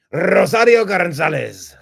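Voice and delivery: grand name announcement. Acted.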